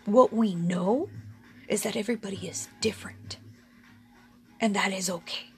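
whispered, fast then settling; hushed emphasis. Real, not acted. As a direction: lean in and whisper the point. Key point, hushed emphasis.

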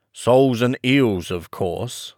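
mildly impatient Griffin; rather impatient. Acted. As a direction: answer as if it were obvious. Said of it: "replied rather impatiently".

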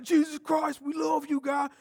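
imitating his viral shout; shouted praise. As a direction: belt it out with joy. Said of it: "It's like".

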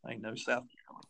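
soft, put-on Southern accent. Comic joking about sounding Southern, mock Southern accent. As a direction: play up a Southern twang quietly. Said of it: "sometimes I think I sound Southern".

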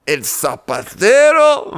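slow, incredulous "¿El zapatero?" with zapatero drawn out; surprised disbelief. Acted. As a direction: stretch out "zapatero" in slow astonishment. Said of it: "Se sorprendieron los discípulos".

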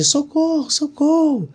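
high, far-off cry of socorro; mother crying for help. Retold or imitated. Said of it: "e a voz da minha mãe".

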